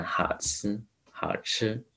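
吃 said with the tongue curled back; retroflex 吃. Shown as a demonstration. Teacher modelling 好吃 for learners, retroflex ch. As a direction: curl the tongue up for the ch in 吃. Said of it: "翘舌音".

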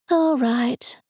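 flat, uninterested reply; bored voice. Acted. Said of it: "Janet said in a bored voice".

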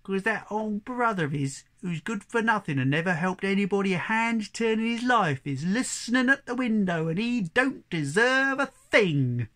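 high, loud denunciation, slowing at the end; indignant donkey. Acted. Donkey exposing the listening brother, loud indignant animal voice. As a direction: condemn him loudly, stretching the last words.

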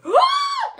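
high, loud gasp of shock; loud mock-shocked gasp; imitated startled gasp. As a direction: re-enact a sudden scare with a sharp gasp. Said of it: "I was like".

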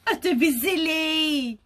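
lightly amused goose; a touch of amusement; little laugh. Acted. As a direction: brush it off with mild amusement. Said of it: "with a nice little laugh".

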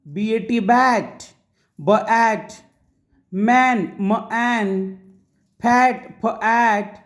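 बी ए टी बॅट spelled letter by letter, slowly; drawn out for the class; slow spelled-out reading. Shown as a demonstration. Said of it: "अशा प्रकारे अचा उच्चार ॲ म्हणून केला जातो".

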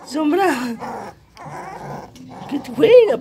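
put-on high, laughing squeaky baby talk; teasing pet voice. Owner teasing a puppy that won't play, squeaky pet voice. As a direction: egg the puppy on in a high playful voice.

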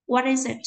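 "what is it" run together as one word; consonant-to-vowel linking through "what is it"; linked sounds. Shown as a demonstration. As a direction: carry the t of "what" into "is". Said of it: "những cái nối âm như sau".

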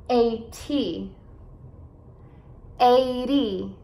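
EIGHTY with the weight on EIGH; careful model of EIGHTY, stressed start; EIGH-dy, first syllable leads in EIGHTY. Shown as a demonstration. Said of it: "enfatizar as sílabas no começo".

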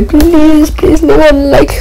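pleading. Acted. Begging viewers for likes.

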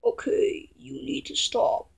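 soft, half-whispered telling-off; hushed scolding. Acted. Telling someone they cannot stop, hushed. Deflated scolding after a sigh.

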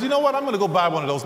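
light-bulb moment, pitched high; sudden bright idea. Retold or imitated.

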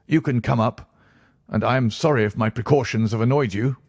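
lightly reedy character voice; nervous patient, reassured. Acted. Patient satisfied after scrutiny, a touch nervous.

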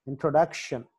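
ఇంట్రొడక్షన్ with the stress on "duc"; ఇంట్రొడక్షన్, "duc" stressed, then falling. Shown as a demonstration. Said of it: "D దగ్గర stress mark".

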